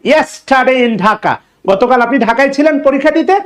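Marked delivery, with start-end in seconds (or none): 0.1-1.3 slow dictation. Shown as a demonstration. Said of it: "teacher dictates the example sentence".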